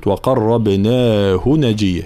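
slow, drawn-out recitation; measured, elongated recital; Quran recitation. Shown as a demonstration. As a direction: chant it as a tajweed example. Teacher recites the word under discussion.

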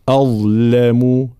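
slow أظلم with light hamza and heavy ظ; thin hamza, then full emphatic ظ in أظلم; careful tajweed articulation. Shown as a demonstration. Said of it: "الانتباه دائمًا إلى التفخيم والترقيق". («أظلم» بترقيق الهمزة وتفخيم الظاء)

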